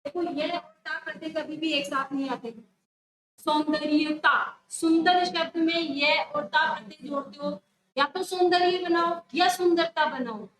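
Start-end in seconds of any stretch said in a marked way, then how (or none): 3.4-4.4 "सौंदर्यता" loud, every syllable voiced; the mistaken word "सौंदर्यता", stressed and fully articulated; wrong double suffix. Shown as a demonstration. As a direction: sound out "सौंदर्यता" loudly with both य and ता. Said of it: "सौंदर्यता नहीं बना सकते".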